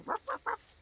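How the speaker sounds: very high yappy puppy barking; puppy barks. Retold or imitated. Reacting to a puppy stitch marker, high yappy barks. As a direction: yip like a tiny puppy. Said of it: "That's my puppy impersonation".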